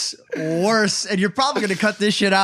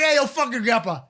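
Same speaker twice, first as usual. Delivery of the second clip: laughing mock quote; 4 semitones higher than usual. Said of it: "You're like".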